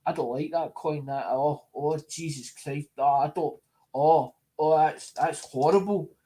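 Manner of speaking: hammed-up recoil from an ugly coin; a snooty buyer pulling a face at a coin; mock disgust. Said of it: "somebody turns".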